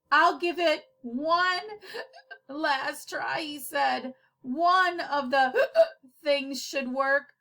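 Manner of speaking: holding back laughter; words cracking with giggles; laughing. Real, not acted.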